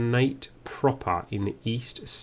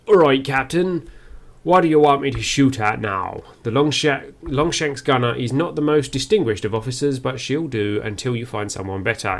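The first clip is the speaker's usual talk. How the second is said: voicing the gunner; 3 dB louder than usual. Gunner officer reporting to her captain, louder voiced. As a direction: play the ship's gunner reporting in.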